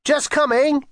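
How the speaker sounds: high-pitched answering call; light, high singsong reply; calling back. A narrator's reading. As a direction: call back from inside the house. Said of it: "came his voice from inside".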